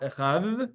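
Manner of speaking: "echad" ending in a soft th; soft dalet. Shown as a demonstration. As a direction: let "echad" end on a soft th. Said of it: "They do the dalet soft".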